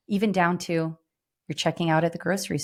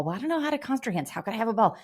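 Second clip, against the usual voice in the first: higher, quick, fretful whine of an overwhelmed host; mock flustered host; 6 semitones higher, faster than usual. Host imagines objections to hosting a ball, in a mock flustered whine. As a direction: play the panicked would-be hostess who can't cope.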